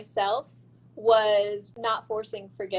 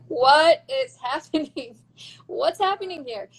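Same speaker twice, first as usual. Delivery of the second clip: startled surprise; 3 semitones higher, 6 dB louder than usual. Retold or imitated. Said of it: "And I was like".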